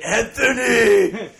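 loud, high, drawn-out comic scream; mock scream. Comic riffing on a friend's spicy-food agony, mock scream. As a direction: scream the name out, long and high. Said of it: "You're screaming as you shit".

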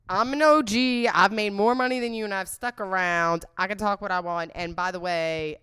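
loud, proud mock Trisha comeback; Trisha's comeback. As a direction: boast it back as a mock Trisha. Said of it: "bitches, like, coming on".

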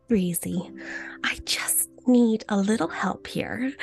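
lightly voiced sweet eight-year-old niece; slow, drawn-out little plea, lightly imitating a child; cute little girl. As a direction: imitate a cute kid asking for help. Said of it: "she's the cutest thing ever".

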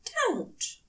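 high, sharp "Don't"; harsh command. A narrator's reading. Angel harshly stopping his lover's hands. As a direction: snap it as an order. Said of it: "Aziraphale said harshly".

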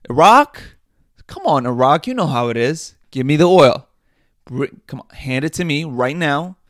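loud, shouted demand for the oil; mock bully demand. America bullying Iraq for oil, loud mock shout. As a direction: bark at Iraq to hand the oil over.

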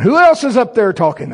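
high, loud startled question; alarmed at a strange voice; high squeaky disbelief; shocked. Retold or imitated. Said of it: "And I'm going".

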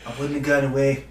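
Donald Trump voice, lightly done; a loose take on Trump's voice; Trump impression. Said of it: "this first one will be in a Trump accent".

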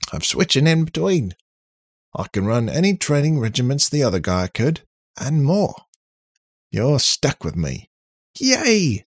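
high, loud, boastful robot; cocky robot character. Acted. Robot boasting to the humans stuck with him, cocky and loud. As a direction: crow it loudly and high, as a self-assured robot.

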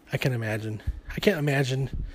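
breathless, winded talk; out of breath. Real, not acted. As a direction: speak short of breath. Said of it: "I know it sounds like I'm out of breath right now".

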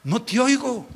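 the Lord demanding to be heard. Retold or imitated. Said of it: "El Señor está diciendo".

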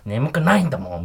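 lightly acted childish pout; mildly cutesy sleepy denial. Shown as a demonstration. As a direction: demonstrate a coy little protest. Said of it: "可愛らしく眠くないんだもんって否定する".

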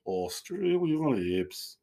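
slow, drawn-out Boston accent. Shown as a demonstration. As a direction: stretch it out like a Boston local. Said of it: "What sort of accent's that".

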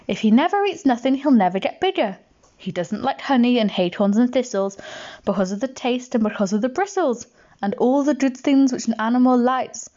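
put-on bouncy rhythmic verse for a child; poem recitation. A narrator's reading. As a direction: recite it with a steady swing.

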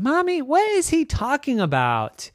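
put-on high little-girl plea; whiny child. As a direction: appeal to mom for help. Child appealing to mother.

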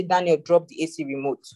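put-on mild, even mother's request to her child; a mother asking her son calmly, without pushing; mother calmly tells Daniel to drop the remote. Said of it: "mommy is talking very calmly".

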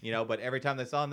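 ordinary delivery

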